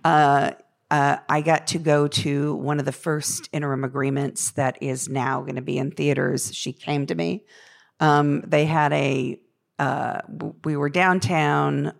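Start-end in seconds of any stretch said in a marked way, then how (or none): 0.0-6.5 rough, worn voice after a late night; gravelly voice. Real, not acted. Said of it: "so sorry for the gravelly voice".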